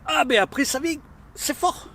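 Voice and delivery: high strained voice from the heat; gasping through chili burn; mouth burning from spicy food. Real, not acted. Pepper heat hits him.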